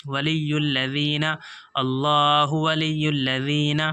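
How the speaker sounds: slow, measured tajweed recitation; slow Quran recitation. Shown as a demonstration. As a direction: draw the words out slowly, chanting. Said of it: "لذین نہیں پڑھیں گے دوست".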